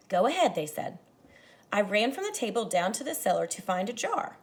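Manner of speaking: expressive read-aloud to a class; story narration. A narrator's reading. Teacher reading a picture book to her class, expressive narration. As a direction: paint the evening for young listeners.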